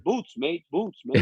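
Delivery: roughly imitated Australian accent. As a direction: have a go at an Aussie accent. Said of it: "You know, Australian guy".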